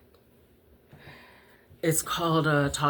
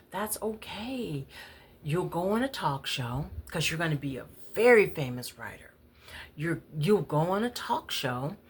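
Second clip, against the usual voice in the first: calm mother; 3 semitones higher than usual. Retold or imitated. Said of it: "she answered me very calmly".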